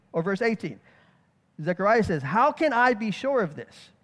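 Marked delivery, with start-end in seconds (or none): 2.2-3.9 weight on I; emphatic I. Acted. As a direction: stress on I in the question. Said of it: "the emphasis that Zechariah gives is".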